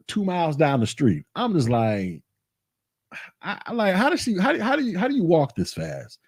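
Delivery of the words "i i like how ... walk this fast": higher, winded disbelief; out of breath. Retold or imitated. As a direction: gasp it out like you can't keep up. Trailing his power-walking wife.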